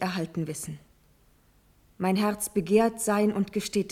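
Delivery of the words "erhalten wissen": fast, hushed confession; a rushed whisper to her uncle; whispered plea. Acted. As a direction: breathe it out like a secret. First take of the plea, whispered.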